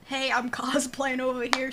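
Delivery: playful mock New York accent; a hint of a New York accent. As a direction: toss it out as a light New York impression. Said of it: "said in a New York accent".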